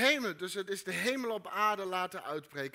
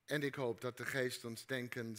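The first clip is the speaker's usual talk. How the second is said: soft, low prayer voice; quiet prayer; 7 semitones lower, 5 dB quieter than usual. Acted. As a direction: pray softly and gently. Closing prayer.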